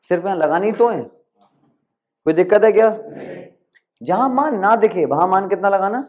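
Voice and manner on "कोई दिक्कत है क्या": slow emphatic repeat. Shown as a demonstration. Teacher repeats the question to students, slow and emphatic. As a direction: stretch the question so the class takes it in.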